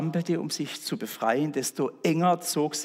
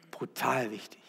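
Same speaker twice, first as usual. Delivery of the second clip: "Brutal" repeated much softer, falling; soft echo; 3 semitones lower, 7 dB quieter than usual. Shown as a demonstration. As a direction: let "Brutal wichtig" sink in quietly. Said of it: "ist brutal wichtig".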